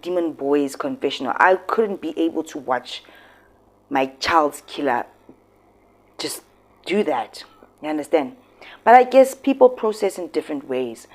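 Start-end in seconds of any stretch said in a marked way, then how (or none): 3.9-7.4 breathy hush on the words; whisper. Real, not acted. Vlogger whispering about the killed daughter's killer. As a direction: drop to a whisper, as if it's hard to say.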